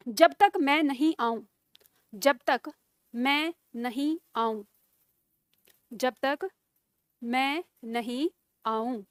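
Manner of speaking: slow, word by word for students to write; slow dictation. Shown as a demonstration. Teacher dictating a sentence to students, slow and measured. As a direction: dictate it slowly, repeating phrases. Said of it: "लिखो".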